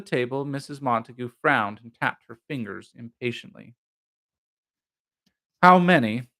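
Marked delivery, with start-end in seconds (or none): 5.6-6.3 eager question. A narrator's reading. Arthur repeats question eagerly.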